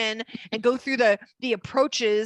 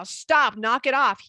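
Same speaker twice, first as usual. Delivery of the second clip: firm command; 2 semitones higher, 4 dB louder, slower than usual. Acted. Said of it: "I'm telling you right now".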